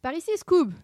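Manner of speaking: loud, high call; urgent cry. A narrator's reading. Sammy runs for the armour, crying out urgently. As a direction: call a friend to follow you. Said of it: "cria Sammy en courant".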